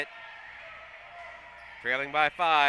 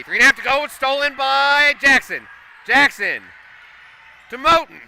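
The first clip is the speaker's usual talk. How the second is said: much higher and louder, calling the steal; excited call; 8 semitones higher, 11 dB louder than usual. Real, not acted. Announcer calling a late steal for the home crowd, excited shout. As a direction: ride the rush of the turnover, voice up high.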